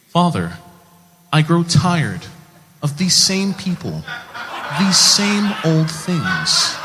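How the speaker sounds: put-on slow, booming Old Testament proclamation; dubbed movie voice. Hercules dubbed over for American audiences, grand biblical voice. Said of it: "what he sounds like when he's dubbed".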